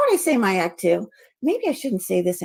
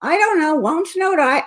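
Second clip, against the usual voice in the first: words said in reverse order; backwards speech; 5 semitones higher than usual. Shown as a demonstration. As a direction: recite the phrase backwards. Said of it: "Talking backwards".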